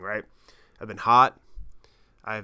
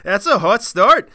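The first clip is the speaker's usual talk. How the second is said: loud, slow, hammed-up Canadian accent; exaggerated Canadian accent; 8 semitones higher, 10 dB louder, slower than usual. Shown as a demonstration. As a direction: play up the Canadian accent, drawn out. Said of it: "don't know why I went Canadian there".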